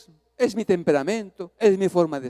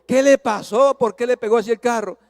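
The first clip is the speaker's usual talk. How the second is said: raised, falsely friendly questioning; forced smile; 4 semitones higher, 5 dB louder than usual. Retold or imitated. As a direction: ask through a put-on smile. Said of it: "puse una sonrisa ahora". (pregunta con sonrisa fingida)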